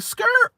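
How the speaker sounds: high-pitched screech sound; mock screeching halt. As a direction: imitate brakes screeching to a stop. Imitating a record-scratch stop.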